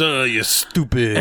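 mock French accent. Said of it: "every French person goes".

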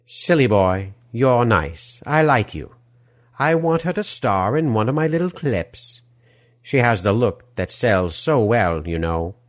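put-on smarmy European movie-villain accent; oily villain accent, gushing welcome; Die Hard villain accent. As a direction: greet them in an action-film villain's foreign accent. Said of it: "accent sounding like the villain of a Die Hard film".

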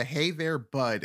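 friendly Canadian greeting, hey there; lightly done Canadian accent. Shown as a demonstration. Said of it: "I can do the".

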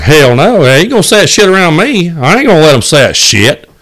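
impression of uncle. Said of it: "I do a pretty good impression of him".

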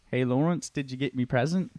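put-on retried take in a lightly done British accent. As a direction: redo it as a Brit, not Australian. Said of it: "Sorry, that was Australian".

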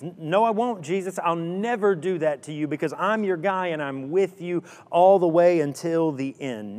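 eager protest. Acted. Peter protesting to Jesus.

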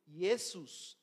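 "Jesús" said as "Iesus", with a Y sound; slow "Jesús" with no Spanish J, opening on "ie"; Greek pronunciation. Shown as a demonstration. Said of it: "Ahí se dice Jesús".

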